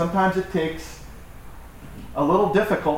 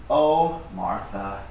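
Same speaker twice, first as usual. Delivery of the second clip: affectionate mild reproach, trailing down; tender, gentle emphasis; much slower than usual. Acted. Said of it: "tender and gentle way, but it's emphatic".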